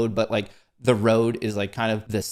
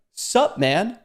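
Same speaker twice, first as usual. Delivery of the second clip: cool dude greeting; 8 semitones higher than usual. Retold or imitated. Biker greets him casually.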